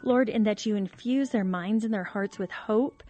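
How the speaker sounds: host praying for struggling couples, earnest; prayer. Acted. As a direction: pray over the listeners.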